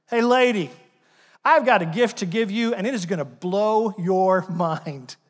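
casual excited Jesus. Pretend. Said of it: "how Jesus might say this today".

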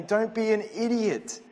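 a father scolding his foolish son; stern father warning. Retold or imitated. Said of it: "He's actually saying".

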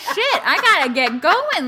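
laughing, slow. Retold or imitated. Mock complaint while brushing.

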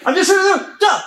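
high, startled mock voice of the lawn guy; a hint of panic as he backs off. Lawn guy catching sight of the naked homeowner, mock startled high voice.

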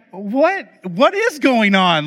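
high-pitched, mock incredulous parent; acted incredulity. Parent confronting daughter over the crash, incredulous. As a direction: act out a parent demanding an explanation.

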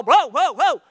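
laughing startled whoa, loud and high. Real, not acted. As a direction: jump back in surprise, laughing. Startled by tall volunteer.

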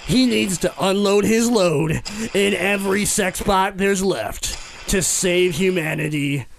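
cracking up mid-pitch; high, loud laughing delivery. Real, not acted. Laughing through his pitch.

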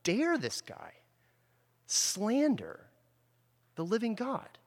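mock-indignant preacher outrage; appalled outrage. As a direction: voice David's shocked disbelief at the giant's insult. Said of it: "David's appalled".

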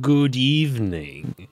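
slow, lightly hammed vampire greeting; Dracula voice. Podcast co-host greeting in a mild Dracula voice. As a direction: draw out the greeting like a count. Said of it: "Uh, Dracula?".

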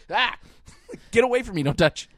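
high, loud squeal of laughing panic; mock panicked yell. Friend jokingly acts out being tickled, high laughing yelp. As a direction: shriek it like someone is tickling you. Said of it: "It's like".

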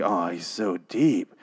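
low, slow fake awe; mock admiration. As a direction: swoon over him sarcastically. Mocks admiring fan reaction.

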